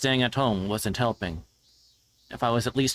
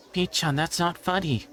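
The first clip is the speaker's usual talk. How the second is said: much higher, mildly peeved reply; a lightly voiced boy scolding a friend; annoyed schoolboy; 8 semitones higher than usual. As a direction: brush off the joke with mild annoyance. Voices the narrator's younger self.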